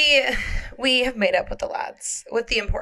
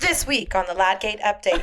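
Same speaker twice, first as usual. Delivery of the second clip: news anchor voice; 2 semitones lower than usual. Acted. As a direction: announce it like a news show.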